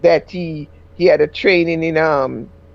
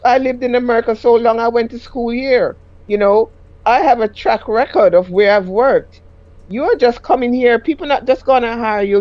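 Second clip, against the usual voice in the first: earnest advice; 4 semitones higher than usual. Retold or imitated. Lecturing husband, retold.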